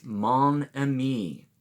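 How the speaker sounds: "Mon ami," slowly as French mo-na-MEE. Shown as a demonstration. Teaching kids a Cajun phrase, slow French. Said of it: "And this is".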